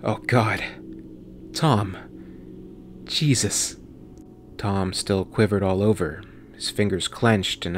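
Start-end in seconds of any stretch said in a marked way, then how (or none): 0.0-3.8 shocked, breathless and stunned; horrified. Acted. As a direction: gasp it out in horror. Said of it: "couldn't seem to catch his breath".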